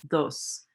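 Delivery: dos, the d softened toward th; Spanish dos. Shown as a demonstration. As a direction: say dos with the tongue lightly between the teeth. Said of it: "more like a th sound".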